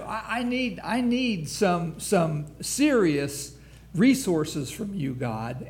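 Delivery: crying out to God. Retold or imitated. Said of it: "he's crying out to God".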